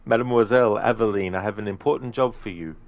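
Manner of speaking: put-on game character retake without the Italian accent; intended game accent. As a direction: redo the line, dropping the Italian lilt. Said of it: "I'll start again".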